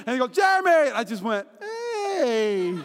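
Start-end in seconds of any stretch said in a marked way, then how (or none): 0.4-0.9 loud, high shout of a name; imitated calling out. Someone hailing a friend at a conference, imitated shout. Caller repeats across lobby. 1.6-2.8 long, high 'hey' hollered out; imitated clueless greeting. Hard-of-hearing man answering unseen caller, mock holler.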